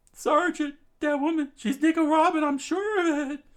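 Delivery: high, loud alarmed soldier; urgent loud report. Acted. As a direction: call it out in alarm.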